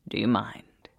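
hushed shopkeeper whisper. Acted.

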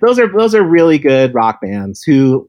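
loud, slow rock frontman voice. Acted. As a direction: announce it like a rock singer. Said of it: "using my rock voice".

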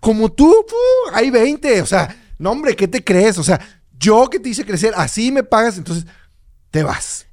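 an insulted employer brushing off his worker; offended Mexican boss. Acted. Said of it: "Yo voy a actuar como empresario mexicano".

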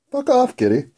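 high-pitched mock snap; mock snap at cat. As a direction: squeal it at the cat. Snapping at cat.

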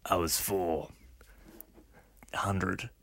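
deep, slow tough guy; low criminal voice. Pretend. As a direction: growl it like a hardened crook. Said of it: "why am I doing his voice?".

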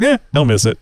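a shrugging, unbothered eh, don't miss it; mock lackluster. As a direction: toss it off as if it hardly matters. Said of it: "I think he was more excited".

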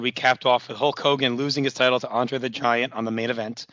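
hoarse voice, nearly gone; lost voice. Real, not acted. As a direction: push through a lost, raspy voice. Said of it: "That's why I have no voice here".

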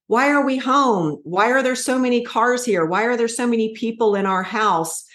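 a hint of confused little boys bursting in; curious young boys.

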